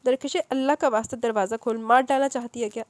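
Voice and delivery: loud tearful pleading; a mother begging, half sobbing. Acted. Mother begs her daughter to open up, tearful. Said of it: "امی کی سسکتی آواز".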